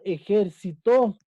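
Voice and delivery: "ejército" said as ejer-SI-to, slowly; slow "ejército" with stress moved onto si. Shown as a demonstration. Teacher introducing the second word, "ejército" stressed on si. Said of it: "Su sílaba tónica es sí".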